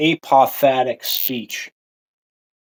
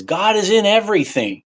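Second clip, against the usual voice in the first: put-on higher, singsong echo of a line from childhood; childhood saying; 9 semitones higher than usual. Recalling what little kids are told, in a higher voice. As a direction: lightly mimic what grown-ups told you as a kid. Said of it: "what do we hear when we're little kids".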